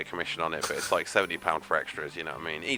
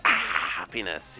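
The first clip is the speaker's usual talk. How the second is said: mock pained grump; 3 semitones lower, slower than usual. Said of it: "he just sort of, like, burns".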